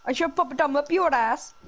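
hammed-up Indian accent; mock Indian accent. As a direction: put on an Indian accent, playfully threatening. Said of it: "my Indian voice".

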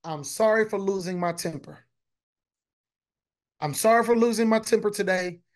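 a preacher modeling a humble, remorseful apology; sincere apology. Shown as a demonstration. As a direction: say it like you truly mean it. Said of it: "It would sound something like this".

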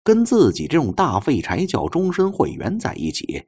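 ordinary delivery, nothing marked

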